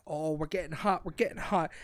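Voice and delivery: low, soft mock-seductive voice; mock aroused lovers. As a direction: lightly imitate lovers getting worked up, low and soft. Voicing the lovers warming up in bath.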